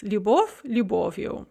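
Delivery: "Любовь, любовью" stressed on the о both times. Shown as a demonstration. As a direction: keep the stress on the о in "любовью", ending unstressed. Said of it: "the stress remains on the o".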